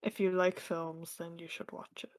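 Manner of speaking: soft ASMR whisper. Pretend. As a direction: breathe it like ASMR. Mock soothing ASMR whisper.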